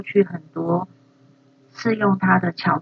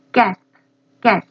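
demo gasping; 3 dB louder than usual. Shown as a demonstration. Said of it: "是喘气的意思".

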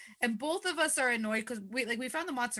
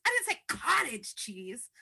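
mock angry yell; 3 semitones higher, slower than usual. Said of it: "the East Coaster yelling".

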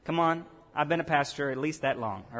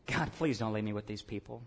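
pleading prayer; 9 semitones lower, 9 dB quieter than usual. Retold or imitated. Moses pleading with God.

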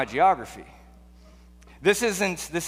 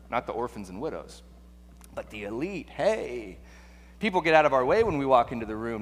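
self-serving haggling; 2 semitones lower than usual. Acted. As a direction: feel out a loophole in a hushed, self-satisfied aside. Scholar angling to love only elites.

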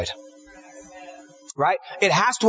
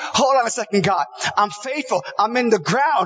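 a higher, pleading protest to God; voicing a faithful believer objecting to God's pruning, pleading higher; 4 semitones higher than usual. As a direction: argue back like a hurt believer.

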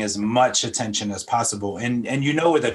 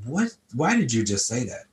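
surprised at himself. Retold or imitated. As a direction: catch yourself off guard, half-amused. Startled at own words.

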